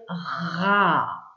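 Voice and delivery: "ra" held long on its own; stretched syllable. Shown as a demonstration. Teacher isolating the first syllable to write, stretched syllable. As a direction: draw out "ra" slowly. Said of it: "Première syllabe".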